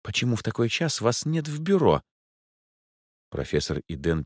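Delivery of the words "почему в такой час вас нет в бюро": higher, fussy lady's voice; a capricious rich lady rolling her eyes; Angela's voice. A narrator's reading. A bored rich client explains why she's out at night.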